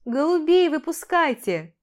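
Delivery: high, loud, irritated call; indignant order. A narrator's reading. Mother-in-law annoyed at losing bouquet, indignant call. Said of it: "возмущённый выходкой Эли Екатерины Васильевны".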